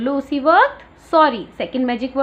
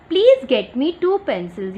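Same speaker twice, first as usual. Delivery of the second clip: very slow, a little louder; slow read-aloud; 4 dB louder, much slower than usual. Retold or imitated. Teacher reading the girl's request to grandparents, slow. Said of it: "ये जो girl है वो क्या बोल रही है".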